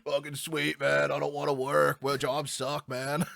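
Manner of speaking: lightly voiced slacker dude; laid-back parody of your own voice; self-imitation. Imitating himself for a laugh, mild stoner-dude parody. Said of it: "I'm done doing imitations of myself".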